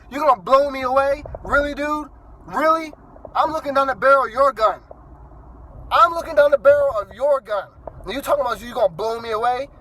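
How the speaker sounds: loud, high, disbelieving retort; incredulous comeback. Retold or imitated. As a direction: throw his threat back at him in disbelief. Retorting to the cop at gunpoint.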